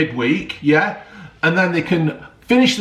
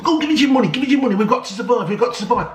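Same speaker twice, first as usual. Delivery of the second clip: mocking greedy league; 5 semitones higher, much faster than usual. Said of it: "all Sky can do ... just want".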